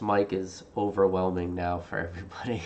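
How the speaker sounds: whispered close into the headset mic; soft unvoiced murmur like a pilot on radio. Real, not acted. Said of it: "You look and sound like a pilot".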